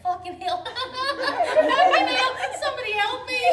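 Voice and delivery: high, stretched-out cry for help through laughter; comic terror, pitch climbing; laughing panic. Retold or imitated. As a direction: panic inwardly while laughing helplessly. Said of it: "I'm laughing, but inside I'm like".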